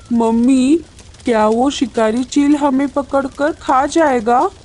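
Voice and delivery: high-pitched little chick; chick's voice. Acted. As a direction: ask Mummy in a small, high child voice. Chick asks mother about the hawk. (चूज़े की ऊँची, बच्चे जैसी आवाज़)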